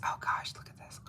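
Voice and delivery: breathless whisper of amazement; awed whisper. Real, not acted. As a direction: whisper it as if it might vanish. Admiring the polish close up.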